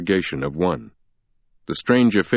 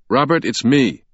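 raised, higher angry voice; 6 semitones higher, 4 dB louder than usual. Acted. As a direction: confront him angrily. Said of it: "a man's voice said angrily".

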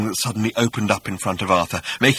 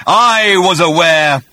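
hissing; 9 semitones higher, 9 dB louder, slower than usual. A narrator's reading. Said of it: "hissed the voice".

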